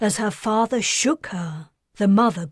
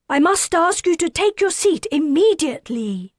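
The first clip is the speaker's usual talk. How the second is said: high, loud, urgent command; insisting he sit at once; firm order; 9 semitones higher, 5 dB louder than usual. Acted. Attendant orders unruly passenger.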